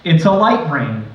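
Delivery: measured, even poem reading; poetry reading. Acted. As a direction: read it like a prose poem. Reads a prose poem.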